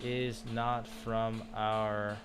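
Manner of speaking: slow, measured word-by-word reading; drawn-out careful translation; slow translating. Real, not acted. Translating an app sentence aloud.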